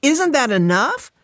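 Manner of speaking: high, exasperated retort. A narrator's reading. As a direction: snap back with pitch jumping up. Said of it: "Fran raises her voice".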